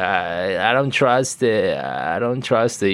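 slow, wary put-on sceptic voice; lightly hammed-up distrustful voice; mock sceptic. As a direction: drag it out like a suspicious doubter. Mocking a vaccine sceptic.

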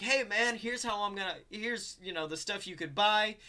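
casual mock sales pitch; salesman patter. Atticus showing visitors round his father's lair, lightly voiced sales patter.

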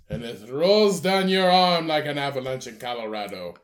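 slow, showy put-on chef; drawn-out theatrical chef talk; Salt Bae impression. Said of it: "that's how he talks".

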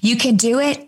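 bright cheering rise on it; lightly voiced encouraging God. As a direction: cheer him on like a coach. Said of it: "the ultimate encourager".

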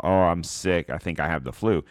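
ordinary talk, nothing marked

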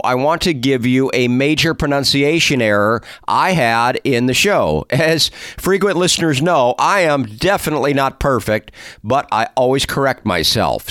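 polished host intro delivery; presenter's scripted welcome; podcast intro read. Acted. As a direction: read it as a measured show opener. Reads the scripted show introduction.

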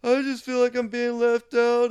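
high fake-sob whine; mock crying whine. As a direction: imitate him breaking into tears. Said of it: "then just hit this cry".

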